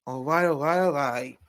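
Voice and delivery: light attempt at a catchphrase impression; Matthew McConaughey. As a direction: toss off a so-so movie-star catchphrase. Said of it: "not my best McConaughey impression".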